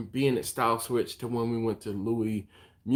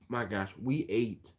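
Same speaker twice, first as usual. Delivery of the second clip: whispering; 5 dB quieter than usual. Real, not acted. Aside about eating too much.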